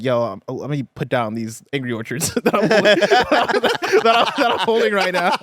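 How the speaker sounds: giggling while quoting; cracking up mid-quote; laughing through it. Retold or imitated. Telling friends about the fight, laughing. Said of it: "look at each other like".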